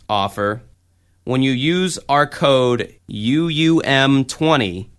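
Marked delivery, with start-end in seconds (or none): 1.2-4.9 code U U M twenty spelled out slowly; slow and clear. Shown as a demonstration. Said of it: "Once again, the code is".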